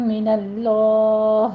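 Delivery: اللہ with a full, heavy l, slowly; heavy Allah. Shown as a demonstration. Teacher shows the heavy lam of اللہ. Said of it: "لفظ جلالہ کو پر پڑھیں گے".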